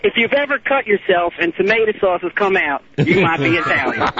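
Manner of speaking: a hint of a Southern comic accent. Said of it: "he's doing a southern accent, too".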